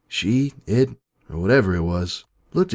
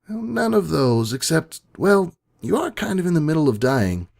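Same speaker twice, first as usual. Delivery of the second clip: smirking copy; 5 semitones higher than usual. Acted. The copy casually telling her she is dying. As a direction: toy with her a little.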